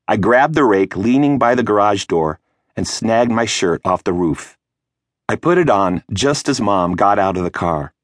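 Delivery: plain reading voice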